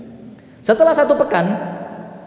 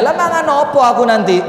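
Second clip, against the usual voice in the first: distressed widow; 6 semitones higher, 4 dB louder than usual. Acted. Widow complains to Musa.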